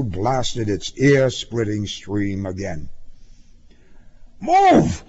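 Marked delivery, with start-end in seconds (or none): 4.4-5.0 high, forceful shout of a traffic cop; husky shouted command; loud husky cry. A narrator's reading. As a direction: bellow it as an urgent order. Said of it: "a loud, husky voice cried".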